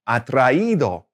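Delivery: "atraído" modeled with a stressed í; teacher's careful "atraído", í stressed; stress on the accented í. Shown as a demonstration. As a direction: land firmly on the í in "atraído", then fall. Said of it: "maintain the right stress and the right syllable".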